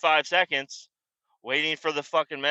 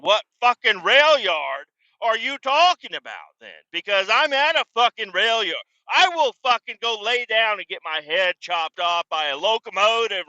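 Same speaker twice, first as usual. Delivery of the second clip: high furious ranting yell; angry yell; 7 semitones higher, 4 dB louder than usual. Retold or imitated. Yelling at coworkers over the wrong rail yard, furious. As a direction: scream it at the coworkers who misled you.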